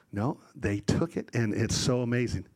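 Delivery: usual speaking voice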